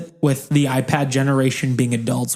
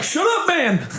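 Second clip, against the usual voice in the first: mock annoyed kid. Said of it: "You're like".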